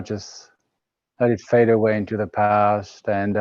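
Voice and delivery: unhurried meditation guidance with pauses; calm, spaced-out phrases settling downward; guided meditation. Real, not acted. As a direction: guide listeners gently into the present moment.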